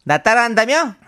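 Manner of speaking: pressed, gruff actor voice; Hwang Jung-min impression. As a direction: push the voice down hard. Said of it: "다음 황정민 씨 가겠습니다".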